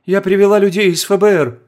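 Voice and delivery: high loud urgent shout. Acted. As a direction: shout it across to her. Calling out to frightened woman.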